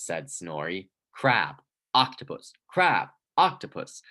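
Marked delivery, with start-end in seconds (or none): 1.1-4.0 slow, rising sing-song bicker. Acted. Brother taunting his brother, slow and rising. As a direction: draw it out, getting shriller and louder.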